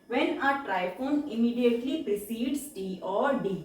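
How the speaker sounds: slow rule reading. Shown as a demonstration. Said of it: "reads rule slowly".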